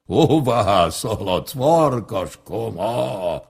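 slow, lumbering bear voice; big bear. Acted. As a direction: drag the words out like a heavy old bear. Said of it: "A medve így szólongatta".

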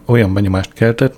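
plain reading voice

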